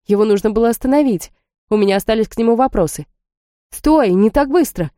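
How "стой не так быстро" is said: raised call after him. Acted. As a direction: call out over the shoulder. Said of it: "крикнула через плечо".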